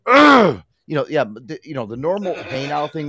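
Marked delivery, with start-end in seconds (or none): 0.1-0.6 frustrated groan. Retold or imitated. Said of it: "I'm like".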